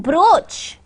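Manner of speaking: "brooch" with long o, as in coach; double O sound. Shown as a demonstration. Teacher demonstrates double O to learners, long o in "brooch". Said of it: "interpretations of one sound".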